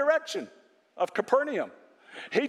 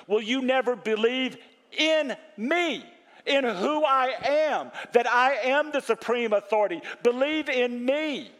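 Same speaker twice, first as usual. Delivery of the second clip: slow, higher, drawn-out emphatic challenge; emphatic demand; 5 semitones higher than usual. Acted. Preacher voicing Jesus demanding belief in him, emphatic demand. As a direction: press each phrase home, slow and raised.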